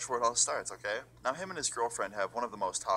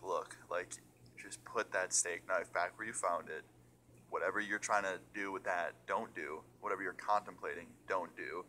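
calming, careful; 5 dB quieter than usual. Retold or imitated. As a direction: gently talk someone down. Talks girlfriend down from holding knife.

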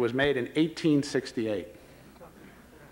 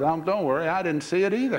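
higher-pitched confiding reassurance; batter's punchline; 5 semitones higher, 3 dB louder than usual. Retold or imitated. Batter backing out to the rookie umpire, higher-pitched reassurance. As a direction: toss it off as the story's punchline.

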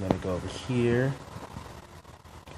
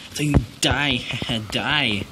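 playful threat. Pretend. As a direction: punch it out playfully. Repeats threat louder.

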